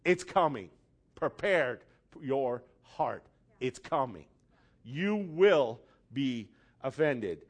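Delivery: hint of a prophetic voice, slowed down; understated solemn Jesus, low and slow; solemn warning. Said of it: "Because Jesus said".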